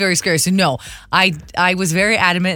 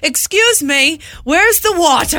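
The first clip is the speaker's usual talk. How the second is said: imitating husband; 9 semitones higher, slower than usual. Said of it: "runs with the cart up to her and says".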